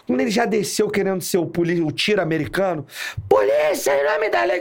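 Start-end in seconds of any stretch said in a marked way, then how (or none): 3.3-4.6 imitated police shout. Officer imitates his gung-ho partner charging out, shouting. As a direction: shout it like a movie cop. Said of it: "Quando ele começou a gritar".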